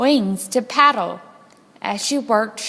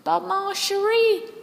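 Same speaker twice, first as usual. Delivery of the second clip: put-on high French-accented plea; French aerialist; 10 semitones higher than usual. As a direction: coo it like a French acrobat. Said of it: "said Mitzi the aerialist".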